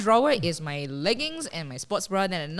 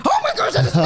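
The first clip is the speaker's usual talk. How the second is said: surprised; 7 semitones higher, 5 dB louder, faster than usual. Retold or imitated. Surprised at seeing herself.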